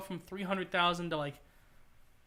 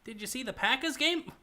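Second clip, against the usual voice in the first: a first, failed stab at a Wisconsin accent, pitched higher; bad Wisconsin accent; 4 semitones higher than usual. Shown as a demonstration. Streamer tries a Wisconsin accent for his friend, first attempt, botched Wisconsin accent. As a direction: fumble a Midwestern Wisconsin accent on the first try. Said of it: "Hold on, that was bad".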